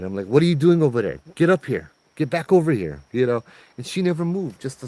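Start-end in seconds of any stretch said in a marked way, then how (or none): 0.2-3.0 calling out. Retold or imitated. Calling wife from the gate.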